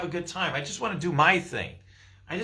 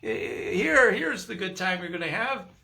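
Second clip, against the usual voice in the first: voice of Source; 5 semitones higher than usual. Acted. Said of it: "Source is just speaking to you".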